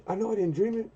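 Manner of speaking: high mock voice of the boss insisting; boss's line.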